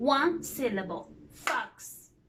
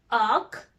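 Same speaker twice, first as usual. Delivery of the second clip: "octopus" broken up with clear pauses; split into syllables; faster than usual. Shown as a demonstration. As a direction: say "octopus" as three separate beats, oc, to, pus. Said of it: "And then split the word".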